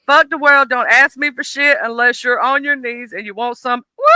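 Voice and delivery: loud, swaggering boast; brash stripper persona. Pretend. Friends joking about stripper names, brash loud boast. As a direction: strut it like a stripper.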